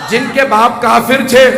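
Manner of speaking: emphatic shout. Real, not acted. Preacher's emphatic point.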